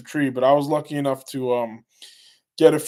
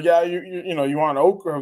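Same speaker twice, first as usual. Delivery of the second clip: imitating southern accent; 3 semitones higher than usual. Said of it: "she has a southern accent".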